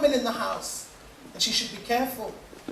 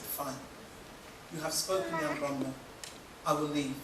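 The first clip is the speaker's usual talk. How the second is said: much lower, soft, final; low resigned acceptance; 9 semitones lower, 14 dB quieter than usual. Acted. Divorced wife accepts her fate, low and resigned. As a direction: say it low and settled, decision made.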